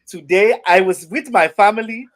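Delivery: high, loud overjoyed player; Chuma Edoga voice. Pretend. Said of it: "You gotta do the voice".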